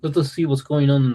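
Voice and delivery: half-hearted go at a Russian accent; botched Russian accent, breaking off; attempted Russian accent. Shown as a demonstration. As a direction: try a Russian accent and falter. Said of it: "I can't do the Russian accent".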